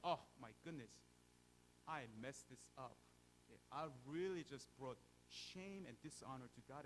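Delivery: loud, anguished self-reproach; despairing inner voice. Retold or imitated. The believer cries out in anguish over failing God. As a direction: cry out as if unworthy.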